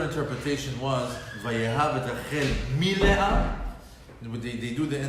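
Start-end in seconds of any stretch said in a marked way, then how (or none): 1.4-3.5 "mi Leah" lifted and pressed a bit louder, rising on "Leah"; stress on mi Leah. Shown as a demonstration. Teacher reading the verse to the class, stressing "mi Leah". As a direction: lean into "mi Leah" as you read it out. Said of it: "the emphasis on the word mi Leah".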